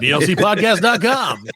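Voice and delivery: booming radio announcer read. Shown as a demonstration. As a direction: sell it like a radio promo. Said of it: "I forgot I could do an announcer voice".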